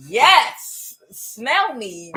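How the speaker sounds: high, loud coy cat voice; voicing the cat. Cat presenting itself to owner, high and loud. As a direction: purr it out like a showing-off cat.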